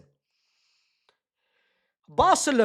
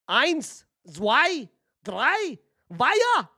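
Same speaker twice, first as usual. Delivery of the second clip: gloating count in German; 3 semitones higher, much slower than usual. Pretend. Madrid fan counting goals in German, teasing. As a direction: build to the punchline. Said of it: "What about German".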